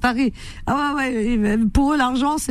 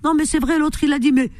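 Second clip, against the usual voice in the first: lightly voiced, somewhat higher pundit protest; a mock-indignant talk-show rant; imitating Khalid; 5 semitones higher than usual. Quoting the football pundit's habit with a hint of his voice. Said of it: "il est là à dire".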